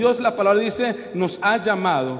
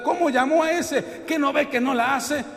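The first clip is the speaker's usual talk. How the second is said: mock football complaint; 5 semitones higher than usual. Acted football complaint about a selection.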